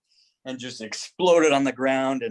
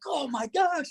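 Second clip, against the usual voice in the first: startled; 14 semitones higher, 3 dB quieter, slower than usual. Retold or imitated. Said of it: "I'm like".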